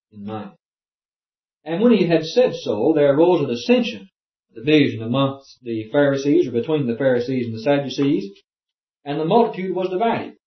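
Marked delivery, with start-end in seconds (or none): 1.6-10.3 raised, declaimed Bible reading; formal scripture-reading voice. Acted. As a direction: proclaim the verse to the room. Reads scripture aloud.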